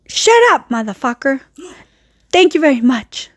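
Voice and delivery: imitating aunt's weird accented English. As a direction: mimic a Spanish-speaking aunt's odd accent. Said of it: "it was in a bit weird accent".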